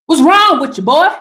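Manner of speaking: playful Southern telling-off; Southern accent. Pretend. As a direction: scold in a homemade Southern accent. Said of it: "tap into my Southern roots".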